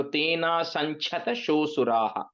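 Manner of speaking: तेना संचत शो सुराः joined as one word; said together. Shown as a demonstration. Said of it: "but you say it together".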